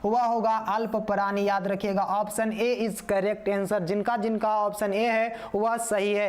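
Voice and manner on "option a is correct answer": very slow, each word laid down one by one; unhurried teacher verdict; slow, deliberate answer. Shown as a demonstration. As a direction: announce the correct option slowly and clearly. Teacher announcing the right answer.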